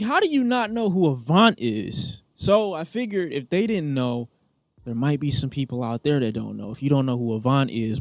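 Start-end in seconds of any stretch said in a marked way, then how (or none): 0.0-2.2 high-pitched, astonished question; incredulous. Retold or imitated. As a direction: ask it in high-pitched disbelief. Quoting own disbelief at friend.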